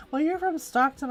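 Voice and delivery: put-on valley girl quote. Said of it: "I was totally a Valley girl".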